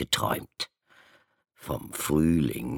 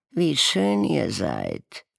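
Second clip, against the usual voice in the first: high, slow, dreamy admiring voice; admiring squirrel; 10 semitones higher, slower than usual. A narrator's reading. Squirrel admiring the ravens' colours, slow high voice. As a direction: gush over the ravens' beauty. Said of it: "sagte ein Eichkater".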